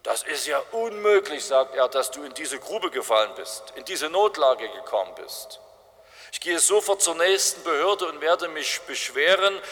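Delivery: mild mock indignation at the injustice; indignant. Karl Marx, indignant, shows outrage at the man in the pit. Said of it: "Und er entrüstet sich".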